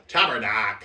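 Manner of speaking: put-on loud, laughing Albertan accent; Albertan guy. Trying Henry's catchphrase, loud Albertan accent. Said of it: "Just, like, some Albertan guy".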